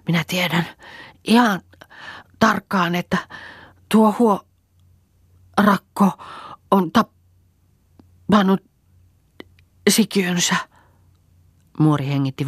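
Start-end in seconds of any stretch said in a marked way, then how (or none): 0.1-10.6 word by word, high and louder, long gaps; broken halting speech. A narrator's reading. Dying old woman accusing the girl, halting pained words. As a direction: force each word out with pain. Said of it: "katkonaisesti sanan kerralla lausuilla".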